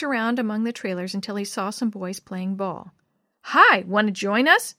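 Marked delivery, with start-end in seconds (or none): 3.4-4.7 mock shout. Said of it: "Bill shouted".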